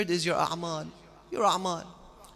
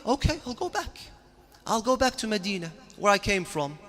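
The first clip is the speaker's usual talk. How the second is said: raised indignant voice; 6 semitones higher, 5 dB louder than usual. Acted. Imam voiced answering the commander.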